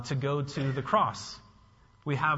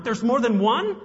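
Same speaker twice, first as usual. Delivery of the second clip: higher and louder, startled question; alarmed surprise; 8 semitones higher, 8 dB louder than usual. Retold or imitated. Reader realising there are many spirits, startled and loud. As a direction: blurt it out in sudden alarm. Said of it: "I'm like".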